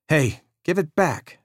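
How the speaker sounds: put-on a kid grabbing his toy back; childish protest. A narrator's reading. Danny protesting to his big brother, high and whiny.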